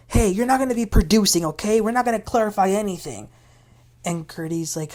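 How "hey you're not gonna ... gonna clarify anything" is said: quick, slightly raised retort; snapping. Retold or imitated. Recapper acts Julia snapping at her friend, mildly snappish. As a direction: imitate someone cutting a friend off fast. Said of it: "Julia then snaps at her".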